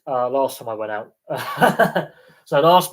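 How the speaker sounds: chuckling through the confession; sheepish laugh while owning up. Real, not acted. Telling viewers about getting drunk, with a sheepish laugh.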